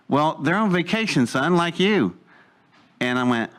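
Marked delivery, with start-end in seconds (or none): 0.1-2.2 higher-pitched, mildly patronizing retort; condescending. Retold or imitated. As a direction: imitate an adult talking down to a kid. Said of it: "it's very condescending".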